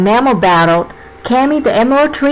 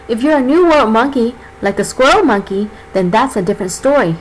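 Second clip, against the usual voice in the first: snake character voice. Acted. Narrator voices Cammy the boa.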